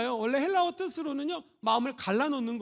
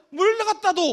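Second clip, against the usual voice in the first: gruff husband order; 7 semitones higher, 4 dB louder, slower than usual. Retold or imitated. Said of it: "남편이 아내에게 얘기를 하는데".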